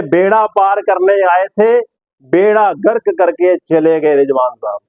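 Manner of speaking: slow, declaimed two-part jibe; Sidhu. Retold or imitated. Presenter quoting Sidhu's jibe at Rizwan, slow imitation. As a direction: lift the first half slowly, let the second fall. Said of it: "अब इस पे सिद्धू साहब क्या बोलेंगे?".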